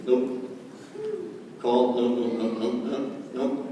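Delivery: low, soft, offhand rejections; brisk dismissal. Shown as a demonstration. Top earner working through calls, coolly dismissive. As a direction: tick them off quietly in a low voice. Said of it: "go like this".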